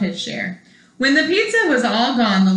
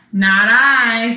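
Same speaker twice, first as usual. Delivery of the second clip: loud refusal; 6 dB louder than usual. Acted. Duck refuses.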